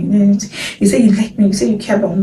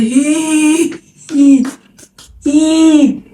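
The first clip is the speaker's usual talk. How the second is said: sharp, higher hey, hey, hey; alarmed protest; 8 semitones higher, 4 dB louder, much slower than usual. Retold or imitated. Protesting the friend's accusation, shocked and loud. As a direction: cut her off in shock.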